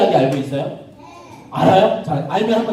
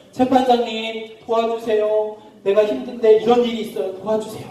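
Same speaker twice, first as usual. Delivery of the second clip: pleading widow; 3 semitones higher than usual. Acted. Poor widow asking the judge for help, pleading. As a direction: stretch the appeal out imploringly.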